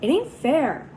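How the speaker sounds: put-on boy crying out passionately about hard luck. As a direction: cry out against injustice. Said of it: "I cried passionately".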